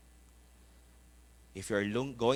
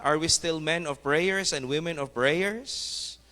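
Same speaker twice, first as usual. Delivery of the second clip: raised, slow preacher's appeal; preaching; 7 semitones higher, 5 dB louder than usual. Acted. Preacher exhorting the congregation, raised and slow. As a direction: call the church to prayer.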